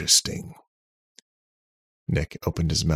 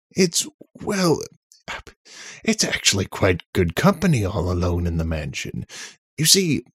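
nervous; 4 semitones higher, 4 dB louder than usual. A narrator's reading. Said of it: "nervous laugh".

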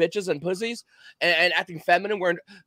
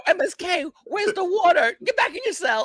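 mock prison guard; 10 semitones higher than usual.

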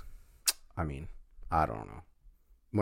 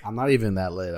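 laughing; 5 dB louder than usual. Real, not acted. Laughing after his own joke.

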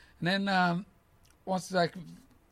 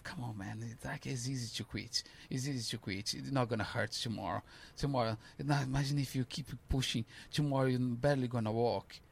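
a softer, coaxing devil voice inside your head; tempting devil; 3 dB quieter than usual. Retold or imitated. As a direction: murmur it like the devil on your shoulder. Devil voice urging to quit.

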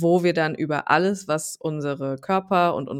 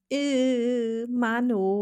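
higher, whiny grumble; grumpy sulk; 7 semitones higher, much slower than usual. Retold or imitated. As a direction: groan it out, fed up. Imitates her sulky past self. (hohes, genervtes Maulen)

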